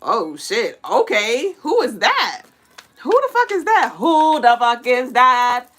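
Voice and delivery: growing astonished who-is-that; mock stunned crowd; amazed onlooker. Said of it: "it's like".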